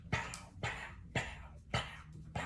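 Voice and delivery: unvoiced-style soft mouthed punch sounds; quick, quiet pows with gaps between; imitated punches. Man retelling a street fight, imitated punch sounds.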